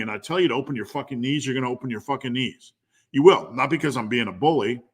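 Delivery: insistent coach on a roll; fired up. Real, not acted. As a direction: push the point hard, a little worked up. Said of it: "I got a little bit fired up".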